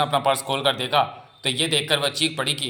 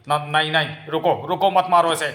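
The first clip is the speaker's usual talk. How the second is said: urgent plea; 3 semitones higher, 3 dB louder than usual. Acted. Father halting villagers stoning a girl, urgent plea. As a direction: stammer into a pressing call to halt.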